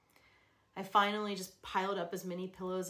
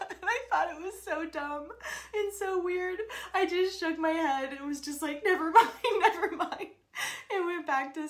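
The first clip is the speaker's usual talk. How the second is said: higher, louder, laughing through it; 11 semitones higher, 9 dB louder than usual. Real, not acted. Retelling her husband's words, laughing. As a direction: tell it while cracking up.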